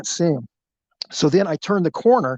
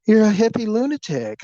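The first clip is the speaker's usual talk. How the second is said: stunned disbelief; 6 semitones higher than usual. Retold or imitated. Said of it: "her mouth was agape".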